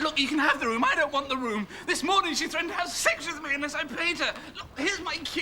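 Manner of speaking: talking through nervous laughs; nervous laughter. Real, not acted. Scared man to gangster, nervous laughing. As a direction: laugh out of sheer panic.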